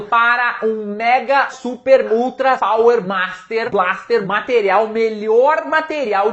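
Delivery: rising hype, word after word; over-the-top mock sales pitch; hyped-up buildup. Real, not acted. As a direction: pile on the praise like an ad. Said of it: "hyping the material".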